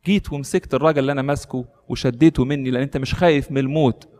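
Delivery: ordinary delivery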